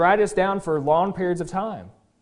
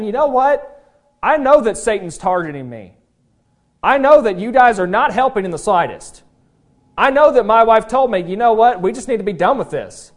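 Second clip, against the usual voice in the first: bold declaration; 4 semitones higher, 6 dB louder than usual. Acted. Job declaring to his friends.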